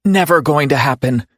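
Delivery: forced out between clenched teeth; words pushed through gritted teeth. Acted. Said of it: "she says through gritted teeth".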